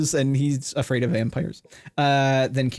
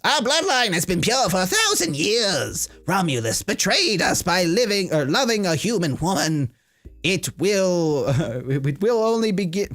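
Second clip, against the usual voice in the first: vampire voice; 4 semitones higher than usual. Acted. Demetrius voiced from film.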